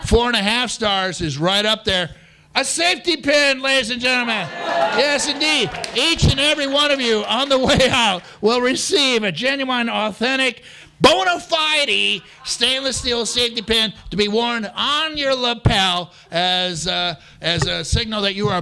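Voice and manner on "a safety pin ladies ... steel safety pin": game show host. Acted. Announcing the prize like a host.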